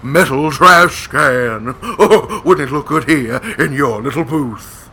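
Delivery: drawn-out, chuckling character voice; put-on excitable visitor. Visitor shows the hosts a found trash can, gushing character voice. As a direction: coo over the find, laughing through it. Plays a visitor bringing finds.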